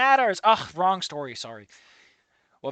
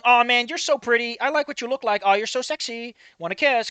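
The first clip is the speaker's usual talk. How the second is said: hammed-up sleazy flirt, a bit louder; mock flirting; 5 semitones higher, 4 dB louder than usual. Mocking the character's compliments with a cheesy flirt. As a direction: parody a guy hitting on her at the worst time. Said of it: "that's kinda what this sounds like".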